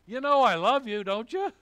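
high, loud exasperated outburst; frustrated. Acted. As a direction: act out Peter fed up with being asked. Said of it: "he got a little frustrated".

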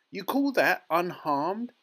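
loud, high, slow outrage; indignant snap. A narrator's reading. Mother rebukes Wonka over her son, indignant snap. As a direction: snap it back in disbelief, drawn out. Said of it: "snapped Missus Teavee".

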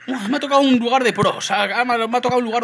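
high, loud exclamation; loud dismay. Real, not acted. Gamer complaining he landed among pros, loud dismay. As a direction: burst out in real dismay. Dismay at facing pro players.

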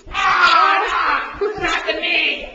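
laughing. Real, not acted. Wrestling pain, laughing.

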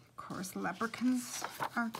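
whispering. Real, not acted. Aside while introducing the book.

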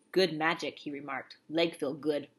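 Little Bear approving his bandaged leg; lightly voiced Indian brave. A narrator's reading. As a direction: speak in short clipped chief's words.

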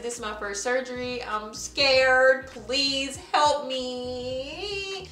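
drawn-out plea, help stretched very slowly; scared pleading. Retold or imitated. Patient begging the surgeon for help before her first surgery, scared plea. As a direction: beg him for help like a frightened first-timer.

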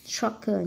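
Soccer with the first syllable stressed; Soccer, weight up front on SOC. Shown as a demonstration. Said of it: "nhấn âm một".

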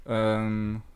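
digitally distorted voice; voice changer. Real, not acted. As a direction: speak through a voice changer. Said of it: "ich mach mal den Stimmverzerrer kurz aus".

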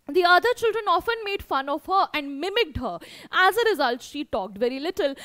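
lifted, deliberate textbook narration; story read-aloud. A narrator's reading. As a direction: read the text out clearly to pupils. Reads the story text aloud to pupils.

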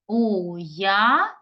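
"уявити" slowly, уя together, then ви and ти apart; divided for hyphenation. Shown as a demonstration. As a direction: split "уявити" after the drawn-out уя. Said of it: "щоб перенести нам це слово".

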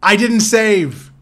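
loud, high, drawn-out wail; slow, agonised shout; anguished cry. Real, not acted. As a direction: cry out in dismay at lost progress. Discovers he lost his progress.

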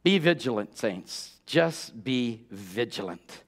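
low, soft and slowing; hushed exhortation. Real, not acted. Preacher urging the saints to be vigilant, hushed exhortation. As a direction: drop right down into a slow, quiet plea.

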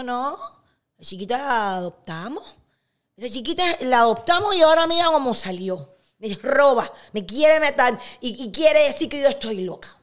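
imitando a su madre enferma, cada vez más fuerte y aguda; madre indignada. Retold or imitated. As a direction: queja acusadora de madre cubana, subiendo a voz alta. (imitando una acusación indignada)

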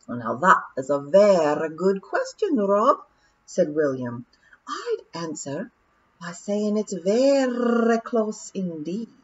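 slow, deliberate pixie voice with a hint of pedantry; William's measured voice. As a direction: answer at leisure as the whale closes in.

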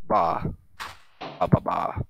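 a light, playful bleat of "ba"; a hint of a sheep bleating. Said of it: "Sheep go ba".

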